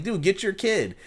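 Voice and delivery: high-pitched mock appeal; exasperated urging. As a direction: imitate an onlooker nagging a parent. Acted onlooker scolding parent.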